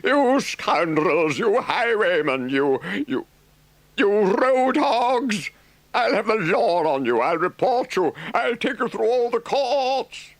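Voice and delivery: high, loud furious rant; threatening the drivers with the law, shouting; raging tirade. Acted. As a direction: spit out every insult at the car. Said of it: "he shouted, shaking both fists".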